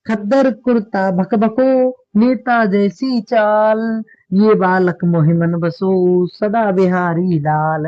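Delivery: slow, drawn-out playful verse; poem recitation. Acted. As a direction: recite the funny couplet very slowly. Teacher recites comic verse. (धीमा हास्य काव्य पाठ)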